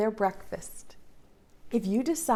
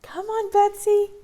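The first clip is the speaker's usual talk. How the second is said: calling out; 10 semitones higher than usual. Acted. Calling the puppet.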